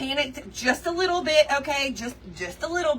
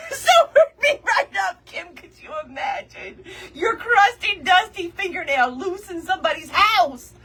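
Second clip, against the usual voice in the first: laughing; 5 semitones higher, 3 dB louder than usual. Real, not acted. Laughing while telling.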